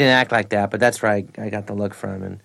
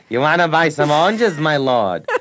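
imitating Ned Glass; 5 semitones higher, 4 dB louder than usual. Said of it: "he's in the market scene".

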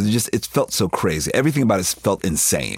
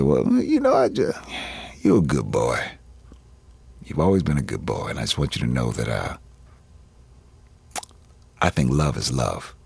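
stepfather's voice; 5 semitones lower than usual. Retold or imitated. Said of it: "I'll do it in his voice".

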